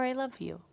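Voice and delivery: I love you said high and soft with a lisp; lisped, breathy I love you; speech impediment. Shown as a demonstration. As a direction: let the impediment slip out tenderly.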